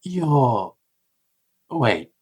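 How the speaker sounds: haughty android challenging an unregistered visitor; halting, superior officiousness with lifted pitch; smug, harsh. Acted. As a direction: look down on them as you query their credentials. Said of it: "harshness of tone, or almost a smugness".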